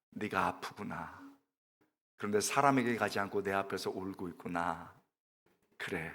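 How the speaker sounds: hushed tender reassurance; tender voice of God. Acted. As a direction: speak gently as God to a crying woman. God speaks tenderly to Hannah.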